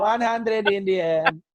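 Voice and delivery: put-on slow, laughing Indian-accent repeat of the driver. Comedian repeating the driver's words, in a slow Indian accent. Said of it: "He didn't even say percent".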